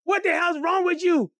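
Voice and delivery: put-on high-pitched indignant girl; acted shrieked reproach at Mama; twelve-year-old sister yelling. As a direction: cry out like an upset child. Young sister yells at mother.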